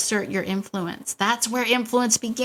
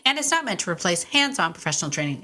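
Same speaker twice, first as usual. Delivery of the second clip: fast, even legal disclaimer read-out; quick disclaimer read; faster than usual. Acted. Host reads the disclaimer to listeners, brisk and even. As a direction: rattle off the fine print briskly.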